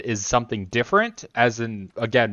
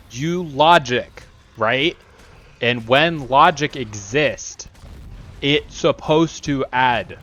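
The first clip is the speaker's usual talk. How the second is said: slow, halting, lightly voiced broken English; broken-English robot logic; slower than usual. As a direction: spell out each idea slowly like a simple-minded machine. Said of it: "I don't know why I'm talking like this".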